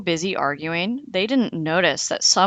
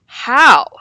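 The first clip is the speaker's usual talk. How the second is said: 1 wolf voice; 7 semitones higher, 11 dB louder than usual. A narrator's reading. Wolf asks, voiced figure.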